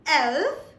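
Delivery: "elf" said slowly, as a teacher models it; German elf. Shown as a demonstration. Teacher shows viewers how elf sounds, slowly. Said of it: "we say".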